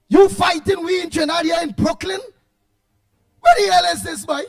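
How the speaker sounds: host scolding a caller over the air, shouting; angry shout. Real, not acted. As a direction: tell him off hard. Host scolds caller Hayden Joseph.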